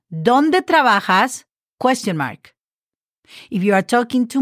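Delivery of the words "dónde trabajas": "¿Dónde trabajas?" drawn out, stress on "Dónde", rising end; slow model phrase. Shown as a demonstration. Teacher modelling the one-person question, slow and careful. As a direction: spell it out slowly in sound. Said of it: "you're talking to one person".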